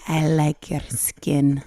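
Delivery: slow, creepy line broken by a laugh; mock-sinister cannibal, laughing through it; Hannibal Lecter. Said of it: "This is Hannibal Lecter shit".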